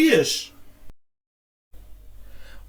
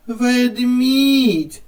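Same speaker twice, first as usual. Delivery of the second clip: "Ведмідь" with the second syllable, мідь, stressed and drawn out; klemtoon op tweede lettergreep; 4 semitones higher, 4 dB louder than usual. Shown as a demonstration. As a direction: lean on the final syllable of "Ведмідь". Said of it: "на який склад падає наголос".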